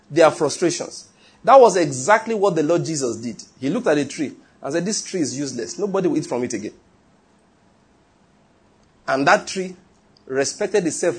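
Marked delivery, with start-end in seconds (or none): 4.8-6.7 casual remark. Retold or imitated. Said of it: "the Lord spoke casually to it".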